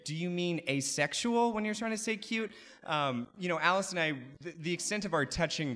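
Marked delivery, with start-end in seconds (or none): 0.0-2.5 sarcastic retort. Retold or imitated. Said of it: "I would say".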